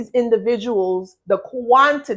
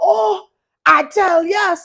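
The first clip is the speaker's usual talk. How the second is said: put-on Trinidadian accent, put on for show; 9 semitones higher, 3 dB louder than usual. Describing someone being pushed until they lash out, the speaker uses a Trinidadian accent. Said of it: "I'm using my Trinity accent".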